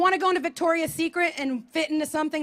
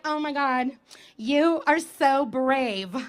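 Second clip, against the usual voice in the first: put-on gushing fitness girl; much slower than usual. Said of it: "She's like".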